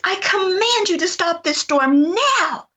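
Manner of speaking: high, slow, forceful command to the storm; commanding shout. Retold or imitated. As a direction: order the storm to stop with full authority. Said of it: "I just screamed".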